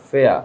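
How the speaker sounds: ফেয়া with no R at the end; British pronunciation. Shown as a demonstration. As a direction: let ফেয়া trail into a vowel, R silent. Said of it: "আর এর উচ্চারণটা হবে না". (ফেয়া, শেষে র ছাড়া British উচ্চারণ)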